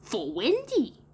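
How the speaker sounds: put-on high, slow boy voice falling at the end; put-on child voice, falling finish; matter-of-fact reply. A narrator's reading. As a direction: answer in a drawn-out, settled statement. Boy answering John's question.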